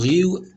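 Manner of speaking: "रियू" starting on a throaty French r; French pronunciation. Shown as a demonstration. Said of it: "in actual French में". ("रियू" धीरे, French गले वाले र के साथ)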